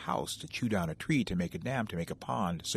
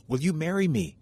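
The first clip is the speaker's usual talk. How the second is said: sudden, higher and louder burst; blurted out; 6 semitones higher, 5 dB louder than usual. A narrator's reading. Nervous beaver proposes to field mouse, blurting it out. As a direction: blurt it before courage fails. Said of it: "he blurted out".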